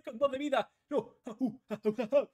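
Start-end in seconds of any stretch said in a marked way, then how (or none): 1.3-2.3 chuckling. Real, not acted.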